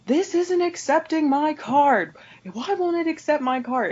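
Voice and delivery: high-pitched indignant customer outburst; imitated yelling. Irate customer storming up to the cashier, imitated yelling. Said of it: "She just starts yelling".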